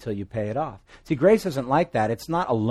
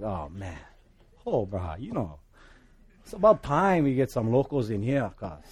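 put-on Hawaiian pidgin accent. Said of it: "thick pidgin accent".

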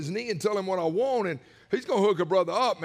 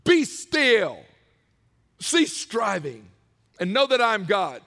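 much louder, slow cease striving; emphatic verse; 5 dB louder, slower than usual. Shown as a demonstration. Preacher declaring the verse loudly to congregation. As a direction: proclaim the verse with force. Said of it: "Do you know what the next part".

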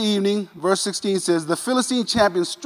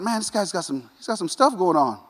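quiet aside; 6 dB quieter than usual. Retold or imitated. Preacher's aside while reading.

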